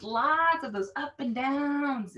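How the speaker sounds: swooping pitch on "up and downs"; exaggerated ups and downs. Shown as a demonstration. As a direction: make "up and downs" rise and fall playfully. Illustrates expressive intonation while describing it.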